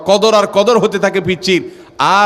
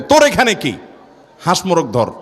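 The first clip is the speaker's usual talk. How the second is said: scolding grandpa. Retold or imitated. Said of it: "দাদা এক ধমক দেয়".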